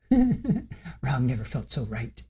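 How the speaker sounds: slow, soft, drawn out through laughter; laughing tagline. Real, not acted. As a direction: savour it while giggling. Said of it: "I'm sorry".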